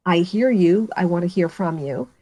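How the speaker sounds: softening, sincere reassurance; tender, attentive tone; warm empathy. Shown as a demonstration. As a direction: let the listener in, easing off at the end. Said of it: "show warmth in my voice".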